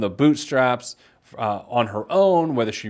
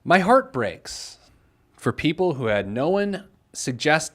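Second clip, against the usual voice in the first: measured, emphatic read of a listener's letter; pointed read-aloud with weighty pauses. Acted. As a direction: read it out deliberately, pausing between phrases.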